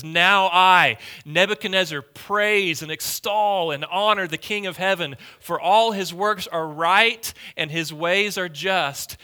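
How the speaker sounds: forceful preacher reading a verse, strong at first; emphatic scripture reading. Acted. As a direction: proclaim the king's praise aloud.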